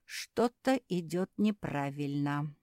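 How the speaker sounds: ordinary delivery, nothing marked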